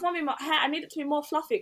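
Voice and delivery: mock pampered boy, pitched a bit up; mummy's boy. Mocking a date pleading to mummy, spoilt-boy voice. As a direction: lightly put on a needy son. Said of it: "he was a mummy's boy after all".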